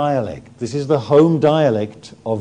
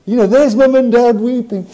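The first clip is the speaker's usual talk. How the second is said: excited; 7 semitones higher, 6 dB louder than usual. Real, not acted. Excited sermon retelling.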